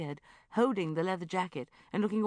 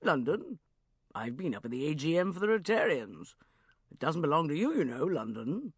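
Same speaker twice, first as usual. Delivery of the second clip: loud jovial uncle voice; hearty Uncle Geoffrey; 3 dB louder than usual. Acted. Uncle Geoffrey hurrying off from Bridget, loud and jovial. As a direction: bluff your way out cheerily.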